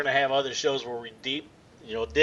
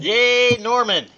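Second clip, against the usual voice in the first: cheer; 7 semitones higher, 4 dB louder, much slower than usual. Real, not acted. Cheering the character on.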